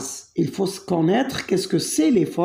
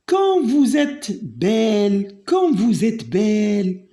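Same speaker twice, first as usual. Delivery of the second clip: exclamative example. Shown as a demonstration. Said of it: "C'est une phrase exclamative".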